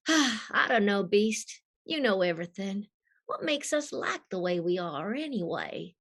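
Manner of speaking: wistful husky Southern voice, lightly acted; Rogue. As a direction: wonder aloud in a Southern accent. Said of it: "they wanted a sexy Southern voice".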